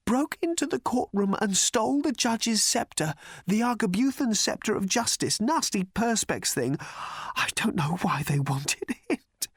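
high, strained hoarse whisper. Acted. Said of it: "whispered the man hoarsely".

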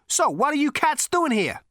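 very high, loose and casual; breezy Zaphod. A narrator's reading. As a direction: toss the question off like a cool dude.

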